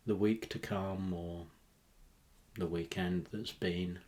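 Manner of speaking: measured, relaxing meditation voice; guided meditation. Acted. Host settling listeners down, guided meditation.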